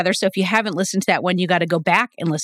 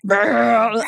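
raspy growl. Shown as a demonstration. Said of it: "I'm like".

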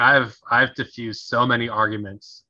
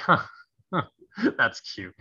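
a snide, patronising little huh, huh, that's cute; condescending; 3 semitones higher than usual. Shown as a demonstration. Showing what not to say to someone, condescending. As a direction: talk down to them like a child. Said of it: "in the condescending tone".

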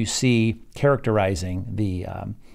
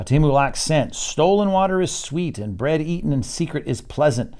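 Folly's enticing call; 4 semitones higher than usual. Acted. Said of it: "the yelling out of, of folly here".

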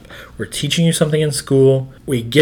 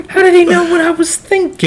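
comic voice climbing much higher, with laughter; Buddy Hackett; 4 dB louder than usual. Acted. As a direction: play a tickled comedian, pitch leaping up. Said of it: "You do a good Buddy Hackett".

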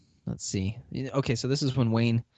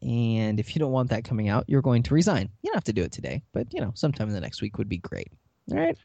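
a hint of a hammed-up President Palmer, stretching key words; Mark as Palmer; 2 semitones higher than usual. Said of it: "This is if Mark played President Palmer".

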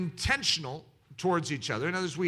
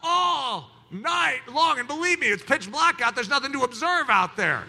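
high, loud, slow laughing lament; laughing complaint; 8 semitones higher, 3 dB louder than usual. Real, not acted. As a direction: laugh through the mock suffering. Laughing over sleepless night.

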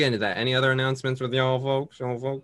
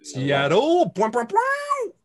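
excited cheer; 11 semitones higher, 3 dB louder, slower than usual. Real, not acted. Cheering for Seattle.

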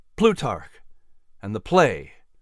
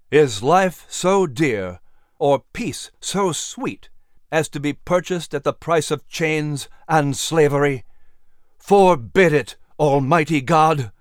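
impassioned plea. Acted. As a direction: challenge every man then call on God. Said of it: "Patrick cried".

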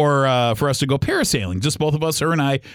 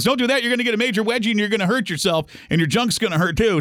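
lightly mimicked urgent warning, higher pitched; guy's warning; 6 semitones higher than usual. Guy warning a nervous parasailer, mock urgent. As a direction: imitate a guy cautioning a customer.

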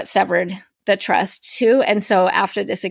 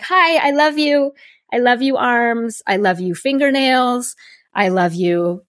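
tender affirmations; 2 semitones higher than usual. Retold or imitated. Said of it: "I'm like".

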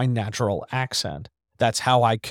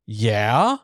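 "Yeah?" with a rising question tune; a drawn-out, questioning "Yeah?"; 3 semitones lower than usual. Shown as a demonstration. Versus takes of one word.

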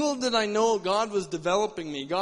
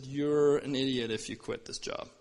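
lightly voiced boss, pitched lower; a hint of a lecturing boss, low; disapproving boss; 6 semitones lower than usual. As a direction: put the employee down in a low, matter-of-fact voice. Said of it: "my boss was a Christian at the time, and he said".

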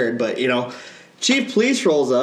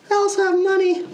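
mock boast. Boastful joke after race remark.

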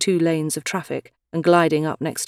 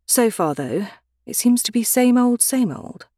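higher, tight exasperated repeat; irritated; 6 semitones higher than usual. Acted. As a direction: let the annoyance slip out. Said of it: "She heard the irritation in her voice".

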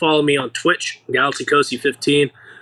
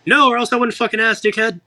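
much higher, indignant mock outburst; snarky retort; 9 semitones higher than usual. Tourist being a snarky asshole right back, indignant. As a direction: raise your voice at a rude local. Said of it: "just raise my voice".

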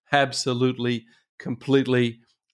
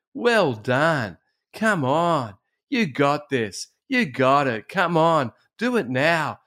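encouraging cheer-on, pitched up a little; Jesus; 3 semitones higher, slower than usual. Acted. Jesus cheering Peter on, lightly acted encouragement. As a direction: urge him on in short, heartfelt bursts. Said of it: "This is Jesus' voice to Peter".

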